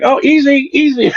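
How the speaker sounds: high, laughing mock warning; laughing easy. Narrator laughingly imitates himself calming the scooter lady, high. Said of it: "I was like".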